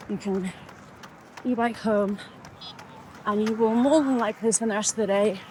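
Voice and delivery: building from firm to loud and rousing; retold pep talk. Runner retelling her pep talk to herself, rousing. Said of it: "I had a chat with myself".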